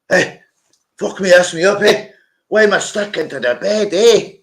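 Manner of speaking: high-pitched mock outcry; acted alarmed waking. Waking up sweat-drenched and stuck to bed, mock alarmed outcry. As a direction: yelp it high, as if stuck and baffled.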